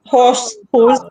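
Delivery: words slurred with no teeth in; lisping without teeth in; loose dentures. Real, not acted. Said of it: "I've not put my teeth in".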